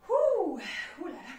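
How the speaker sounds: breathless after the exercise; panting, winded; out of breath. Real, not acted. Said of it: "moi je suis essoufflée".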